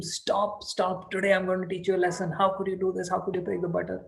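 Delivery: mock-stern mother threatening a lesson; scolding mother. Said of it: "she kept telling him".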